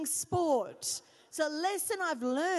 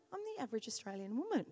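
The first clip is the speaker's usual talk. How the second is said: lower, softer, quick flat deflated take; 4 semitones lower, 5 dB quieter, much faster than usual. Retold or imitated. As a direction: let the pride drain out. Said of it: "I actually got depressed".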